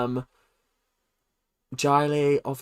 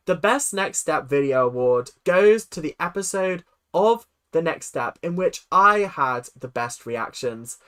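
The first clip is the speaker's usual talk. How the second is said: emphatic, louder announcer delivery; award show presenter; 3 dB louder than usual. Acted. Host announcing nominees to viewers, formal announcer.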